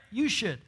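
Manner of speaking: You lifted and leaned on; stress on you. Shown as a demonstration. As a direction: press the word You. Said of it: "Not the other person".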